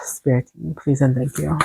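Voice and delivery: quiet, out of breath request. Real, not acted. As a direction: ask softly while out of breath. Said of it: "like, a little out of breath".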